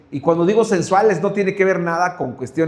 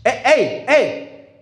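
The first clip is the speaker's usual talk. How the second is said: calling out; 5 semitones higher, much slower than usual. Retold or imitated. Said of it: "nos dice".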